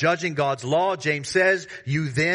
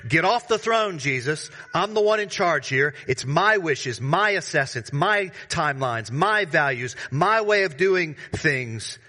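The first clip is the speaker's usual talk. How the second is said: mock-defiant voice of a proud heart, pitched up; defiant self-righteous believer; 2 semitones higher than usual. Preacher voicing a listener's proud heart, mock-defiant. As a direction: toss it off like a petty usurper, half-acted. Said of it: "you're saying".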